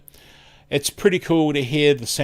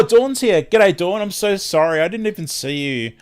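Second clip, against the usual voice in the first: surprised; 5 semitones higher, 3 dB louder than usual. Real, not acted. Suddenly spotting a missed viewer.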